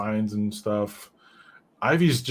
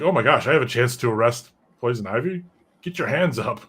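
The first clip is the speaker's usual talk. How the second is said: eager, raised voice, keyed up to arrest; excited cop; 3 semitones higher, 3 dB louder than usual. Retold or imitated. Bullock thrilled to finally arrest Poison Ivy, eager raised voice. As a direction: blurt it out like a thrilled rookie cop. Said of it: "he gets all excited".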